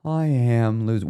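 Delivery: slow, half-hearted sad try; attempted sad inflection. Shown as a demonstration. Coach testing a phrase in a sad inflection. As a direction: try to sound a little sad, slowly. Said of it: "hard to say with a sad".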